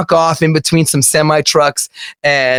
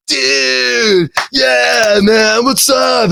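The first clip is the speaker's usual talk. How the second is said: excited greeting; 9 semitones higher, much slower than usual. Retold or imitated. A guitarist greeting a starstruck teen fan, excited shout. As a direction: greet a fan like an old buddy.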